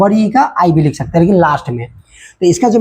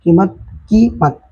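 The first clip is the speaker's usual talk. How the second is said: कीमत whole, then slowly split as की, मत; second कीमत in two slow beats; word, then syllables; slower than usual. Shown as a demonstration. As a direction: say कीमत, then break it after की. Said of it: "मत अलग बनेगा".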